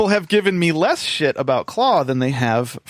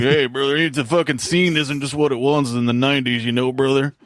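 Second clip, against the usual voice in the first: lightly voiced washed-up metal guy; a hint of a self-important bar-scene bore; failed metal guy. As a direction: play a mild parody of a local has-been rocker. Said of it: "shitty failed metal guy at the worst bar in town".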